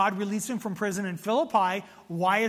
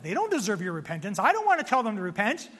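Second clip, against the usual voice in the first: lightly acted protest, hurried and stubborn; Jonah; faster than usual. Jonah objecting to God's call, mildly indignant.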